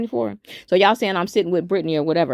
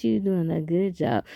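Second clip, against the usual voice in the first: softer praise; 5 dB quieter than usual. Shown as a demonstration. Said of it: "you know when you like".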